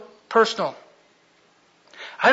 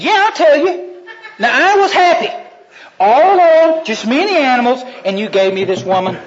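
higher, louder, laughing excuse from Adam; sheepish Adam; 7 semitones higher, 6 dB louder than usual. Acted. Adam laughing nervously as he excuses himself to God. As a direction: blame it all with a chuckle.

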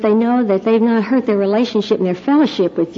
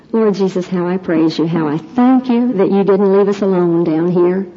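earnest, steady closing prayer. Acted. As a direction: pray it over the congregation.

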